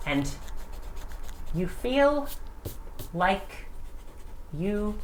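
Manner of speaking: slow, dramatic scene-setting; game master narration. Acted. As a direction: draw the players in slowly. GM sets the scene slowly.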